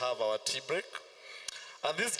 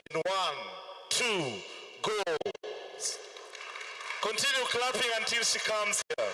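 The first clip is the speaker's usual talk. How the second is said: rousing call; 5 semitones higher than usual. Real, not acted. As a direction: urge the crowd on. Urging crowd to clap.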